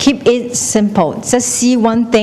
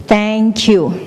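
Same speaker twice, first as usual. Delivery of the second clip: echo shouting back. Acted. The world shouts thanks back, even echo. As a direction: echo with a falling end. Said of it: "It will shout back".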